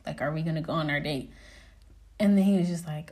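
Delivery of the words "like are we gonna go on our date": low, softer, unimpressed question; bad mood. Woman confronts her gambling date, in a mildly bad mood. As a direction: keep it low and subdued, mildly annoyed. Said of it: "I'm in a bad mood".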